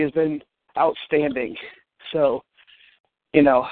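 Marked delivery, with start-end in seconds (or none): 2.1-3.7 winded after climbing stairs; short of breath, catching air. Real, not acted. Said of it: "sorry I'm out of breath".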